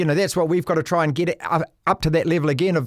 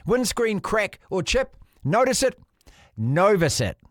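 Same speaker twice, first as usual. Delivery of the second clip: smooth radio ad read, a little softer; sponsor ad read; 4 dB quieter than usual. Acted. Podcast host reading the Novus Glass sponsor message, ad read. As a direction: sell it like a radio spot.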